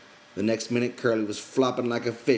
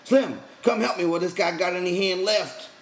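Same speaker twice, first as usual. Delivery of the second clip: loud, higher urgent commands; repeated shouting; 10 semitones higher, 5 dB louder than usual. A narrator's reading. George shouts at Lenny and calls Slim, shouting. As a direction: yell over and over to let go. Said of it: "George shouted over and over".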